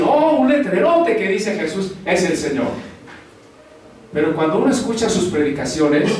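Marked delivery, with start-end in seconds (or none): 0.0-2.9 mock delight. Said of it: "hasta podría alegrarse y decir".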